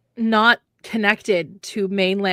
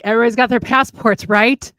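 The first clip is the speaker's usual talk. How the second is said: calling out; 7 dB louder than usual. Retold or imitated. Acted question to the car.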